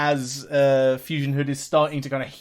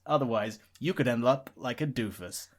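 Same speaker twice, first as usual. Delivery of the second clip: deadpan to camera. Acted. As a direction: deliver it straight as a deadpan public warning. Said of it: "he's then gonna deadpan and face the camera".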